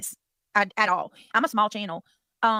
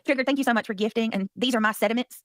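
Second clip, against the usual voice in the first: imitating Granny. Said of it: "she's been practicing you, Granny".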